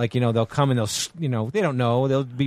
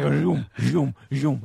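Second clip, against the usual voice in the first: drawn-out whoosh of passing cars; imitated car noise; much slower than usual. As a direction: mimic cars zooming past. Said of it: "it was like".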